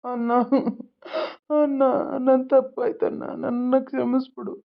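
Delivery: tearful plea for forgiveness; weeping apology; crying. Acted. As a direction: beg through sobs, in broken phrases. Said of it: "ಅಳೋದ್ ನಿಲ್ಸು".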